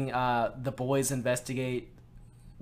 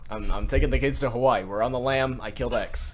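Barack Obama impression; 4 dB louder than usual. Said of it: "my Barack Obama voice".

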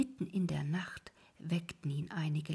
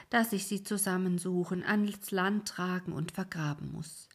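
grumbling ferryman. Acted. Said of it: "sagte der Alte".

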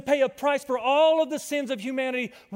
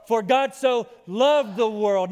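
louder, shouted declaration; said with belief; 5 dB louder than usual. Shown as a demonstration. Pastor models believing it for the congregation, loud. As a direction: proclaim it like you mean it. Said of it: "you gotta say it like you believe it".

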